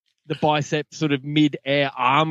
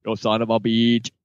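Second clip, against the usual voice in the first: put-on low Austrian-accented action-hero line; attempted Austrian accent; 5 semitones lower than usual. Co-host retrying the catchphrase after apologising to listeners, low Austrian accent. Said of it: "I can't do it".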